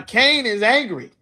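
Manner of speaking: ordinary talk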